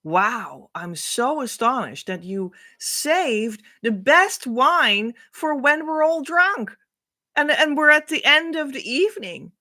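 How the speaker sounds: a guest gushing that the best wine came last; admiring guest. Acted. Guest to the host at the wedding, delighted. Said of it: "a visitor said to the host".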